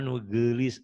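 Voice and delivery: nugelis said as "noo-geu-lees"; correct Sundanese pronunciation. Shown as a demonstration. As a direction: give nugelis the muted Sundanese "eu". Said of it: "ada E-nya ya, orang Sunda".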